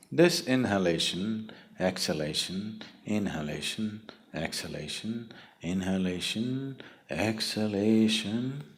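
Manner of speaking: soft, measured chant-like list, each word rising at the end; breath-cycle demonstration. Shown as a demonstration. Teacher showing listeners how breath goes in and out, measured rising demonstration. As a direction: count out breaths gently, lifting each ending, stretching the last.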